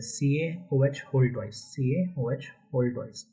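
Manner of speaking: slow, spaced-out reading of सीएओएच whole twice; formula reading demo. Shown as a demonstration. Teacher showing students how to read the formula, slow demonstration. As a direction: spell out सीएओएच slowly, then "whole twice" as a unit. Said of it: "formula हम ऐसे पढ़ते हैं".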